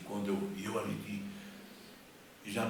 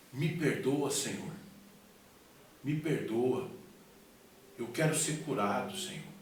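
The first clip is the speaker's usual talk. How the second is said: raised, insistent plea; pleading prayer; 3 semitones higher than usual. Retold or imitated. Sick man on his knees asks God's forgiveness, pleading. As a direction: beg forgiveness in emphatic bursts. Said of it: "comecei a falar com Deus".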